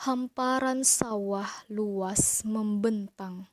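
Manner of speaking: slow declamation with drawn-out words and pauses between lines; expressive poetry recitation. Shown as a demonstration. Teacher showing pupils how to read a poem, expressive slow recitation. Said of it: "mau contohkan cara membaca puisi dengan ekspresi".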